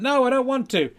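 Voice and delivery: high, loud refusal; reluctant dummy. Acted. Dummy refuses the ventriloquist's coaxing, high loud protest. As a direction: dig in with a high dummy whine. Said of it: "and, and say".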